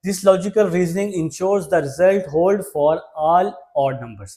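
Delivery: reading the question word by word, slowly; slow dictation read. Shown as a demonstration. Teacher reads question six to students, slow and spaced. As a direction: spell the question out slowly for the class.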